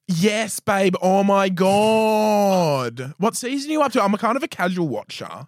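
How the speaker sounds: camp gushing with a long drawn-out "God"; put-on gay voice. Man thrilled to talk Drag Race with a date, put-on gay voice. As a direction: gush in mock camp, stretching the exclamation. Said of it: "Can I, can I do a gay voice or no?".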